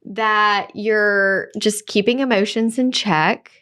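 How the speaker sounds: retold calm, careful warning; calm advice. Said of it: "And then I said".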